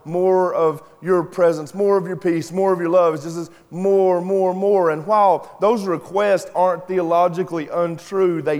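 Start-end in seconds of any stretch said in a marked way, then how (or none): 0.1-3.1 mock whiny plea, a little higher; lightly imitating a whiny begging song; whiny worship plea. Preacher mocking whiny worship songs, mock whiny plea. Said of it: "being like, crying out, whiny". 3.7-4.9 mock whiny, a little higher; hint of a begging whine; whiny more. Preacher mocking worship songs, mock whiny begging. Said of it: "sound really whiny".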